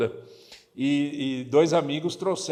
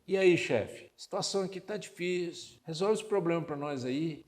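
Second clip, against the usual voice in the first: casual mock prayer; 2 semitones higher, 4 dB quieter than usual. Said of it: "Você fala assim com quem?".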